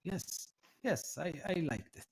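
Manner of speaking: put-on mildly flattered, courteous old scholar; lightly voiced old tiefling, pleased. Flattered tiefling offers help to the visitor, lightly voiced and courteous. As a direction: accept flattery, then offer polite help.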